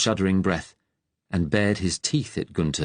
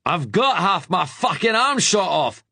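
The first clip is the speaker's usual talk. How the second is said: pained shout; 10 semitones higher than usual. A narrator's reading. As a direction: yell it back, wounded and angry. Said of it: "Ben shouted".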